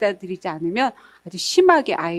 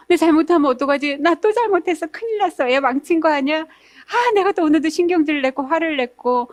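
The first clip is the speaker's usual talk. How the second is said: higher, fretful worried rambling; mock anxious mom; 5 semitones higher than usual. Lecturer voicing an insecure mother doubting herself, mock anxious and higher. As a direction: panic a little over every mistake. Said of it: "용기가 없어서".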